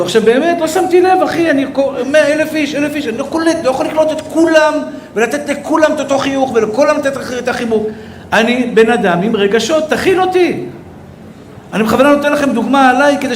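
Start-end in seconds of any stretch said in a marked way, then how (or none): 0.0-10.6 higher, pushing appeal; rising, urgent appeal; heated plea. Real, not acted. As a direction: cry out to be understood. Rabbi insists he cannot hug everyone.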